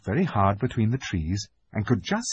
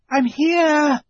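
high, loud call; shouting; 6 dB louder than usual. A narrator's reading. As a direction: call out to the others. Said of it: "she shouted".

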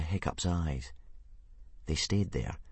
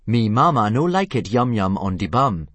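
loud Dragonese phrase, called out; emphatic, loud dragon-talk; shrill Dragonese; 3 semitones higher, 8 dB louder than usual. A narrator's reading. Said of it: "punctuated by shrill shrieks and popping noises".

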